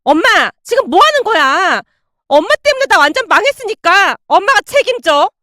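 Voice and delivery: high, loud angry yelling. Acted. Sister-in-law yelling at her mother, angry. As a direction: yell at your mother. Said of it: "소리를 질러댔어요".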